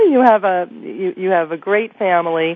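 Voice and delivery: stuffy nose, blocked nasal tone. Real, not acted. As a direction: talk through a head cold. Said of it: "so I sound a little nasal".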